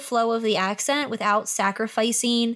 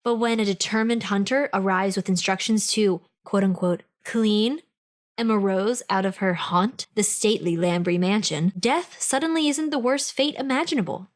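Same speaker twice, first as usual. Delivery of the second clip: lower, dramatic book-blurb narration; blurb read; 3 semitones lower than usual. Acted. Podcast host reading the ghost story blurb, dramatic narration. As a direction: read it like a movie trailer teaser.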